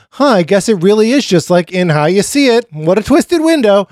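high, hammed-up musing voice; Tracy. Co-host spoofing the heroine saying the book's title, high hammed-up musing. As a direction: act out a mock realization, pitched well up. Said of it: "and Tracy being like".

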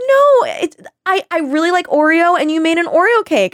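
imitating Ryan defending the cake; insistent friend. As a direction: insist brightly, way up high. Ryan insisting she likes it.

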